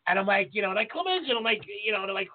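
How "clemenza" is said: retold fan shout. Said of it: "people coming up screaming out Hell's Kitchen".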